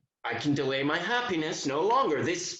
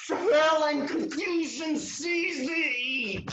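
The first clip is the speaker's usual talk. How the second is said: excited; 11 semitones higher, slower than usual. Acted. Exclamation of joy.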